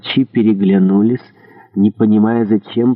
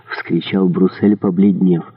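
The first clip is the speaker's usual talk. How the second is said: ordinary delivery, nothing marked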